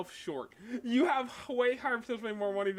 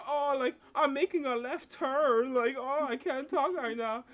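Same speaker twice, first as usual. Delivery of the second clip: mock Asian accent; 7 semitones higher, 4 dB louder than usual. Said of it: "be like".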